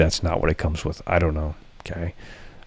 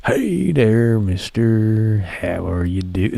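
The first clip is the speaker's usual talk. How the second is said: creepy greeting; 2 semitones higher, much slower than usual. Pretend. Streamer greeting a viewer in a creepy voice, interrupted. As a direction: start the creepy lure then break off.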